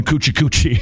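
laughing coochie coochie; impression of a singer. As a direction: giggle through a coochie in her style. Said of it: "laughing at your impression".

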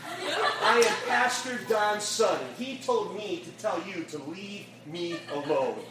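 slow, deliberate, chest-out pride; proud declaration. Retold or imitated. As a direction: announce it with shoulders back. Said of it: "put his shoulders back, and he put his chest out".

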